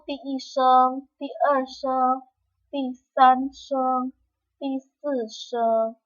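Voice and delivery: slow tone names ti i sheng to ti si sheng. Shown as a demonstration. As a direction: spell out each tone name slowly. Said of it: "Ini adalah nada satu". (menyebut nama nada dengan pelan)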